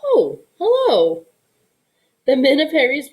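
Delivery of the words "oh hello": high, slow, softened greeting; sudden gentle voice. A narrator's reading. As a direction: melt into a sweet hello. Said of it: "in quite a different voice".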